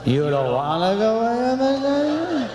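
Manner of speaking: high, smeared, drawn-out drone; mumbling husband. Retold or imitated. Husband giving up on the vacation, mumbling. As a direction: let the words slide up and melt together. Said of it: "He sounds like this".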